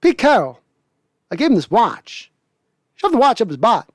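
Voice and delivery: clumsy Walken watch monologue; Walken impression. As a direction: riff on the gold watch speech as Walken. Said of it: "I'm not doing a horrible Walken".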